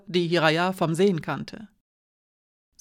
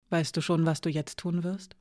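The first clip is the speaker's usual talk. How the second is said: much softer, fading question; softly; 5 dB quieter than usual. Acted. Hiraya asking Alina softly about her future. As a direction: ask it gently, barely above a breath. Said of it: "fragte Hiraya leise".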